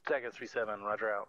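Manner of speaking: loud radio call over static; crackly military radio. Real, not acted. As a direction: bark it into the handset.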